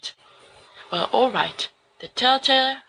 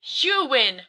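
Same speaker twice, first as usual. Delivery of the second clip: laughing protest; 7 semitones higher than usual. Acted. Friends wrestling, one gives up.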